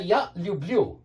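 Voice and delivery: "Я люблю" with the weight on the final "лю" of "люблю"; stress on the ending. Shown as a demonstration. Teacher showing learners, stress on the end of "люблю". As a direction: lean on the last syllable of "люблю". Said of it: "the stress is on the end".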